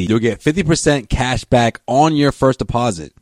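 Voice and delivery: sponsor read voice. Acted. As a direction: read it like a radio spot.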